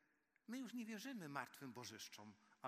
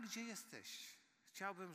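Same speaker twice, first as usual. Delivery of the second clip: normal talking voice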